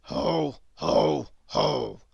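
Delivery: low, heavy, joyless ho ho; gloomy ho ho ho. Acted. Grizzle copying Squeak's laugh, gloomy ho ho. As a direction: drop it down like a sigh. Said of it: "repeated Grizzle gloomily".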